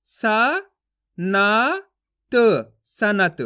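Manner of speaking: सा, ना, त sounded out one by one, then सनत with a full ना; wrong reading shown. Shown as a demonstration. Teacher to students, showing the wrong full-ना reading, slowly. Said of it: "अगर आप पूरा ना के रूप में इसका उच्चारण कर दोगे".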